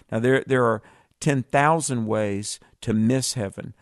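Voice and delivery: normal talking voice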